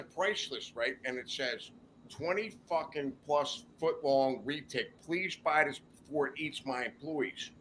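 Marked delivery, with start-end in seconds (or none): 2.1-7.5 softer, half-to-himself read-out; reading a sign aloud. Retold or imitated. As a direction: read it off the list quietly. Reads price list aloud.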